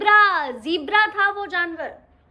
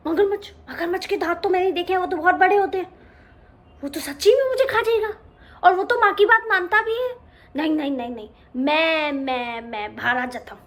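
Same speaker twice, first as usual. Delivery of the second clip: fast, panicky gabble; a frightened cub backing down; mildly scared little lion cub; faster than usual. Acted. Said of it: "शेर का बच्चा डर गया".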